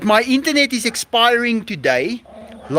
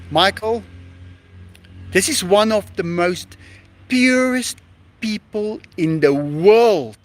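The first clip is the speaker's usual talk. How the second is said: scolding himself. Retold or imitated. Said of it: "I say to myself".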